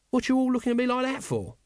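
high, defensive and sulky; sullen. Acted. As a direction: grumble it back at them. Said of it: "added sullenly".

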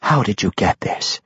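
understated threat in a question; sharp, threatening. A narrator's reading. Matron mother questioning Tosin about the sword, sharply threatening. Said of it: "asked sharply, her threat clear in her tone".

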